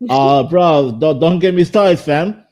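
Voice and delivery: light mock British slang; playful British lad talk; British accent. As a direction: banter back in put-on British. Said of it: "have a conversation in British accent".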